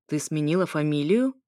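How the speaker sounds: mildly surprised question; a touch of astonishment; sincerely surprised. Acted. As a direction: ask with understated, genuine surprise. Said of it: "С искренним удивлением поинтересовался он".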